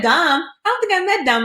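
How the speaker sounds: high, puzzled retelling of the friend. Retold or imitated. Friend confused about who Dom is, lightly voiced high. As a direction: voice her confused question.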